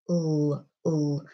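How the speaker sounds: L held as a long voiced buzz; voiced l sound. Shown as a demonstration. Teacher demonstrating a voiced L to learners. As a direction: sustain "l" with the tongue up. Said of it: "l, as you can hear, is a voiced sound".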